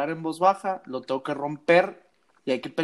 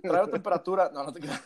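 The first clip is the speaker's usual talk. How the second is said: laughing; faster than usual. Real, not acted. Joking about fever, laughing.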